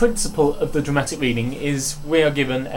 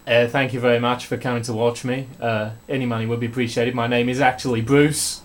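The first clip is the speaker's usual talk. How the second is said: put-on mild Australian accent; 5 semitones lower, 3 dB quieter than usual. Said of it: "A genuine Australian called Bruce".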